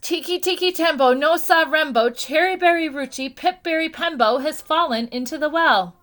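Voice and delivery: high, loud, out-of-breath rush of the name; breathless rush. A narrator's reading. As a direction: gasp the long name out in a hurry. Chang pants out the long name.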